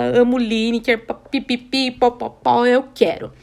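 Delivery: high, loud gushing fan squeal; babbling with excitement; squealing fangirl. Retold or imitated. Gushing over the singer.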